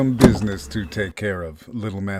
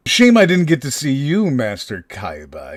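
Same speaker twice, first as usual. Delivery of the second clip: higher, louder, fast gleeful taunt; 5 semitones higher, 6 dB louder than usual. Acted. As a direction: rush the gloat with glee. Kidnapper taunts Kaiba on phone.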